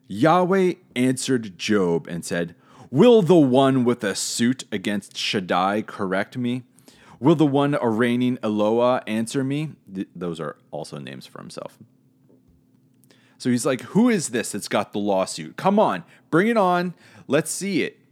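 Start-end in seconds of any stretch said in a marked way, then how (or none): 2.9-9.7 booming challenge. Acted. Reading God's challenge aloud. 13.8-18.0 high, loud goading dare; taunting. Acted. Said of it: "It's, it's like taunting".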